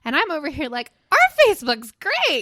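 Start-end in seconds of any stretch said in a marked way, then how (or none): 1.1-2.4 high, loud burst of enthusiasm; boasting cheer. Retold or imitated. Host crowing about their lively group, high and loud. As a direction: belt it out like a proud booster. Contrasting her cheer with others' doubt.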